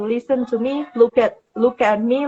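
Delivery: steady voice with firm emphasis on each phrase; calm but firm. Shown as a demonstration. Teacher locking eyes with an upset child, calm and firm. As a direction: hold the child's gaze and lean on the words. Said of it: "nadanya rendah, tapi ada penekanan di situ".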